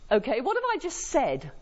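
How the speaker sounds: ordinary talk, nothing marked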